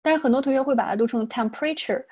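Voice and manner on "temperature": "temperature" with the accent on the wrong syllable; misplaced stress. Shown as a demonstration. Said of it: "重音错了".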